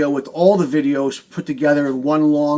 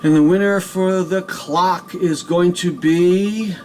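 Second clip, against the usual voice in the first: suspenseful reveal; 4 dB louder, slower than usual. Real, not acted. Building suspense before winner.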